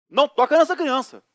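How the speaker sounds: mais alto e agudo, enfático; loud warning. Retold or imitated. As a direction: alertar com força. Warning wife in shopping. (aviso em voz alta e aguda)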